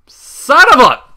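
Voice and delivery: loud, high blurted oath; sudden curse. Real, not acted. Reader cursing at a stumble, loud and high. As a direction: burst out mid-sentence. Narrator cursing in mid-read.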